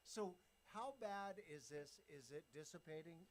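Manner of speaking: talking while chewing gum; words round a piece of gum. Real, not acted. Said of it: "Forgive me, I'm chewing gum".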